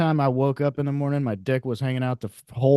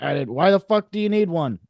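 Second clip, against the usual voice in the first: indignant retort; 4 semitones higher than usual. Pretend. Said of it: "I'll be like".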